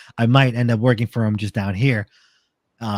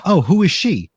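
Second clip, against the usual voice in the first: high, louder imitation of the old patient asking; imitated old man; 7 semitones higher, 6 dB louder than usual. Caregiver imitating the elderly Russian patient asking about a photo, high and louder. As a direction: voice the patient's surprised question, pitched up. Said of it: "And he goes".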